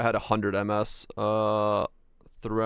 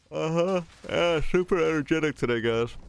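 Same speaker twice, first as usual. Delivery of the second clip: sarcastic; 6 semitones higher than usual. Real, not acted. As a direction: say it deadpan, clearly not meaning it. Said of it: "As I'm yawning".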